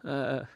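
high, jeering "ah" breaking into laughter; wicked laugh. A narrator's reading. Crucified man jeers at the rider, wicked laugh. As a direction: laugh out with malice. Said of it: "Un riso cattivo".

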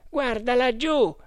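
high-pitched warning call; urgent alert. A narrator's reading. Oarsman to his leader on spotting the bank, urgent high alert. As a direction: alert the boat, pitch jumping up.

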